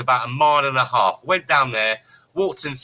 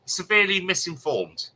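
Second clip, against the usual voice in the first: incredulous echo; 5 semitones higher than usual. Retold or imitated. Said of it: "Never heard that one before".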